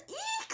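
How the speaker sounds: very high squeaky eek; tiny startled shriek; Goldilocks screaming. A narrator's reading. Goldilocks wakes to bears, high eek. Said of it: "screamed Goldilocks".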